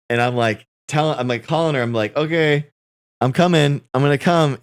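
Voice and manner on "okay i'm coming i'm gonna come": eager. Retold or imitated. Eagerly calling her about movie.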